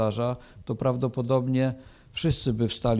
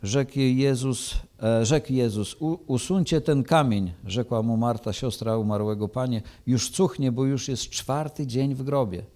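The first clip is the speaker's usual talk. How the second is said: measured, solemn Gospel reading; scripture reading. Acted. Preacher reading John to the church, solemn and measured. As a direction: read the Gospel to the congregation with gravity.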